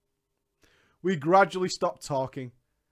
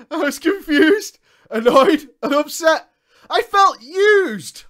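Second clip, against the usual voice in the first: mock outrage; 9 semitones higher, 10 dB louder, slower than usual. Overacted outrage reading the story.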